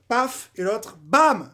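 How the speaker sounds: punchy paf then a loud bam; mimicking the header with a loud bam; sound effects. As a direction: bang out the goal like a cartoon hit. Acting out the goal sounds.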